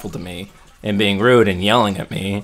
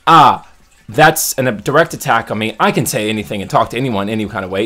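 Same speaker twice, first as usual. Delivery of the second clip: mocking rude customer; 5 dB louder than usual. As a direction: whine it like an offended entitled customer. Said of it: "and go".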